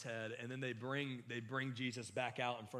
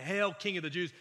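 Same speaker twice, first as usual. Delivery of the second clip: mocking; 3 semitones higher, 4 dB louder than usual. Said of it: "they're mocking Jesus".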